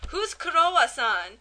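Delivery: puzzled quote with a Japanese-style Kurowa-san; imitating a Japanese accent, amused. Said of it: "it's like a really weird accent".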